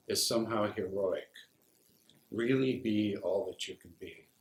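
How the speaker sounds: measured poetry reading, pausing after phrases; poem reading. Acted. Veteran reads his war poem to an audience, measured recital. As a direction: read it as sober verse, phrase by phrase.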